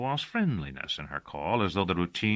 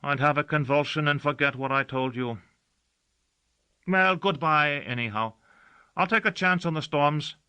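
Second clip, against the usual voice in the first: servant Gossagor's voice; 9 semitones higher, 3 dB louder than usual. Acted. Servant says goodbye.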